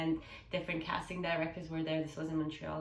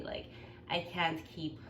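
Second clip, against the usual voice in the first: usual speaking voice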